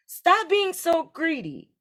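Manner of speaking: high, slow, scolding little brother; indignant youngest son. A narrator's reading. Youngest son scolding his greedy brother, high and slow. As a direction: drag it out in high protest. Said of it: "said the youngest".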